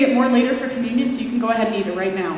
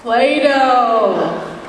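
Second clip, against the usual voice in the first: cued answer; 6 dB louder than usual. Shown as a demonstration. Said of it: "what did I say church was gonna be about today?".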